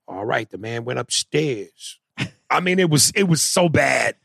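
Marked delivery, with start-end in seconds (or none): 0.1-2.0 put-on slow, botched Jamaican accent; bad Jamaican accent. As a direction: imitate an actor dragging through a failed Jamaican accent. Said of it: "He go".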